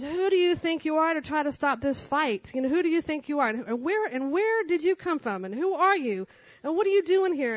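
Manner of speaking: imitating an angry woman without a full scream; mildly hammed-up challenge to the intruder; retold angry yelling. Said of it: "she's screaming and yelling at me".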